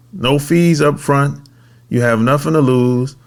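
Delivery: measured podcast ad read; sponsor read. Acted. Host pitching a tax credit service to business owners, ad read. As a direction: pitch it in short, even phrases.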